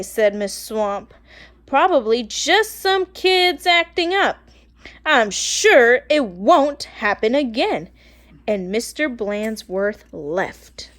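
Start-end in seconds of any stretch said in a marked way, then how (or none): 1.7-7.9 loud, slow, bossy commands; a strict teacher whipping the class into shape; stern witchy teacher. Acted. Miss Swamp ordering the kids back to their desks, loud and stern.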